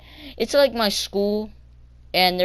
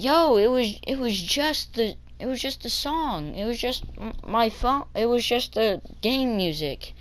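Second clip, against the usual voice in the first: defensive excuse; 5 semitones higher than usual. Retold or imitated. Kid explaining game music to bus driver, mildly defensive. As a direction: stumble through a mock defence.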